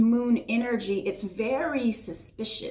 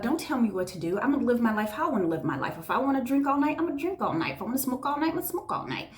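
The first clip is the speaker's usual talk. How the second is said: sass back like a stubborn rebel; a hammed-up don't-tell-me-what-to-do voice; defiant; faster than usual. Voicing defiant rebellious person.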